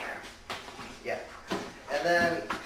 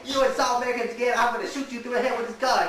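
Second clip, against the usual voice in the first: mock threat; 8 semitones higher, 3 dB louder, faster than usual. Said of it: "Chris Tucker's like".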